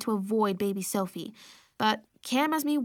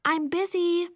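pleasantly; 7 semitones higher, slower than usual. A narrator's reading. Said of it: "I said as pleasantly as possible".

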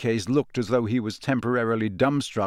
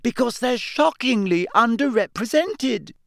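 loud over Ron; 9 semitones higher than usual. Acted. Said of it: "speaking even more loudly than Ron".

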